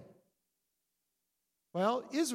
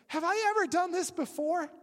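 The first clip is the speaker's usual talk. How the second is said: higher, louder donkey voice, indignant; talking donkey; 9 semitones higher, 4 dB louder than usual. Acted. Donkey reproaching Balaam, high and indignant. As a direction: make the donkey sound put upon.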